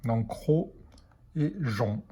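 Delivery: teacher sounding out "cro" and "jon"; sounding out syllables. Shown as a demonstration. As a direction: model "cro" then "jon" slowly for children. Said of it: "le G et le E se prononcent J".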